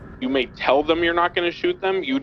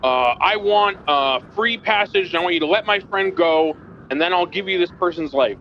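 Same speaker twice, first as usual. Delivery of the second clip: demanding criminal; 4 semitones higher than usual. Acted. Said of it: "you're like".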